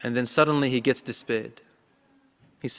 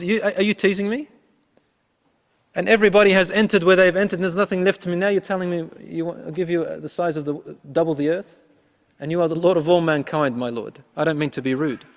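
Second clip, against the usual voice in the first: incredulous plea; 3 semitones higher than usual. Retold or imitated. Man asks if Lord teases him.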